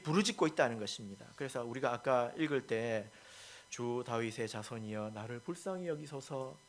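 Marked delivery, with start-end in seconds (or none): 3.7-6.5 mock solemn. Shown as a demonstration. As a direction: recite the plea far too sedately. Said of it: "근엄한 목소리로 이야기했을까요?". (근엄한 목소리로 점잖게)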